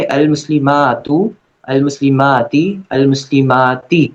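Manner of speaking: अल मुस्लिमाती read slowly, syllable by syllable; Arabic recitation. Shown as a demonstration. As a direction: give अल मुस्लिमाती a clear rising teaching recitation. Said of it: "हम उसको ऐसे पढ़ेंगे".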